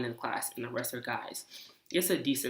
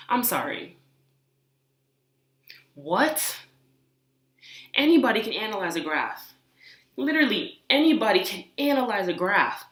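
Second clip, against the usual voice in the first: angry rant; 4 semitones higher, 3 dB louder than usual. Real, not acted. Venting about condescending partner.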